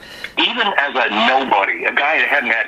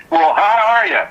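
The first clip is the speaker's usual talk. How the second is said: higher, a bit louder imitation of the caller; a musician's high voice; 8 semitones higher, 3 dB louder than usual. Guest imitating a musician answering on the phone, high voice. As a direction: mimic the high-pitched caller echoing back. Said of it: "Just like that".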